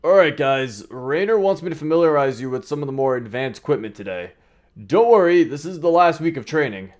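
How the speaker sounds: upbeat military trainer character; Joshua, encouraging trainer. Acted.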